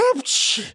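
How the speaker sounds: a sharp little sneeze. A narrator's reading. The prisoner sneezes before agreeing from the cell. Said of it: "чихнув".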